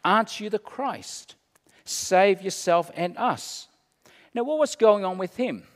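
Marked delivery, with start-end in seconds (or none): 0.0-3.7 higher, jeering taunt; mocking insult. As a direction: throw it up at him like an insult. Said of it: "hurled insults at him".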